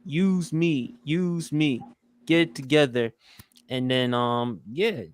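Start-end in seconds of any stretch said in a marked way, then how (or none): 0.1-3.1 mild mock yell, opening on a raised "Hey"; lightly acted scolding call; retold yell. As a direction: imitate a mentor yelling, only lightly raised. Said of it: "James Avery yelled at him".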